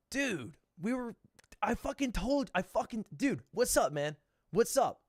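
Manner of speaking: soft, halting, awed greeting; hushed fan excitement. Retold or imitated. Two fans greeting Ludwig, hushed and halting. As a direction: stumble over words, keeping it quiet.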